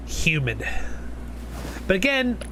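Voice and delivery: ordinary talk, nothing marked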